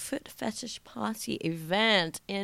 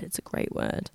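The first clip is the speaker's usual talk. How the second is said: low, much softer aside; hushed repeat; 7 dB quieter than usual. Real, not acted. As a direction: drop it right down, almost voiceless. Remark repeated to herself, hushed.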